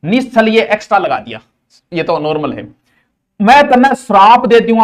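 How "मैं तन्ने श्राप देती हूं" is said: hammed-up sage laying a curse, then fading; booming curse that sinks to a mutter; mock curse. Teacher playing a sage cursing the students, mock curse.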